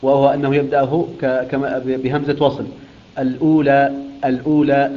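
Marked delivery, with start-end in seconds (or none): 3.2-4.9 "الأولى" with the connecting hamza, a sukun lam and a long ū: al-ūlā; "الأولى" with no hamza on the waw; Hafs-style reading. Shown as a demonstration. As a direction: read "الأولى" as the majority do, al-ūlā. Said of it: "هكذا مثل ما يقرأها حفص".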